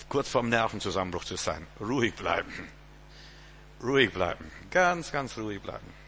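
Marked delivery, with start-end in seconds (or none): 1.8-5.9 calming reassurance. Acted. Models staying calm.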